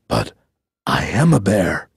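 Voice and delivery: low bear voice; insistent bear. A narrator's reading.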